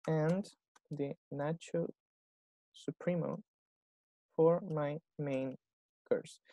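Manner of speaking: slow, spaced-out model phrase; slow teaching model. Shown as a demonstration. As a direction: spell the order out word by word for the class. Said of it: "me quiero detener". (lento, palabra por palabra, como modelo)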